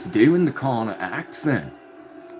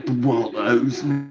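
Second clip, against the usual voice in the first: imitating a self-styled supervillain; a put-on catchphrase in an odd accent; Connor. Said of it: "He's gonna sound like he's".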